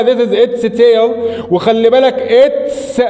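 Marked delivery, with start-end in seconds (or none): 0.0-1.1 slower teacher model sentence; slowish model. Shown as a demonstration. Teacher repeating the example a bit slowly. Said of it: "هذا ذيلها".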